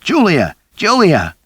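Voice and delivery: high, loud shout through a door; man shouting outside the door. A narrator's reading. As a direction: yell her name in alarm. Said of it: "I heard Ricky shouting".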